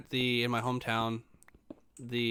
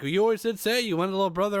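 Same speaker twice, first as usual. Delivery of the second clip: raised, lively quoted voice; excited mom, retold; 8 semitones higher, 6 dB louder than usual. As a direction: imitate mom exclaiming, high and loud. Acts out mom's excited remark.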